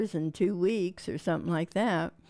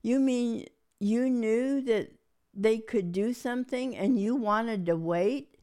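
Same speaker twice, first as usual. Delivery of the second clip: mad husband; 4 semitones higher than usual. Retold or imitated. Wife retelling her husband's anger, mock outraged. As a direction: replay the husband's outraged question. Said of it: "he was so mad".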